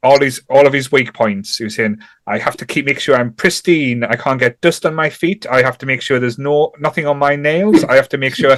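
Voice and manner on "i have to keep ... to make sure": a hint of Cockney in a retold moan; accidental Cockney accent. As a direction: lightly imitate him, slipping into Cockney. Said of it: "I'm doing a Cockney accent now".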